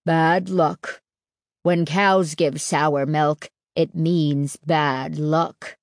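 slow, low, ominous warning; fearful declaring. A narrator's reading. Stanley warns the table about sour milk, fearful declaring. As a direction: declare a superstition with slow dread. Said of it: "his expression suddenly fearful".

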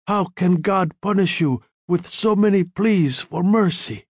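measured, earnest consolation; grave. A narrator's reading. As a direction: gravely reason with a dying friend. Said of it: "The Don spoke quietly, gravely".

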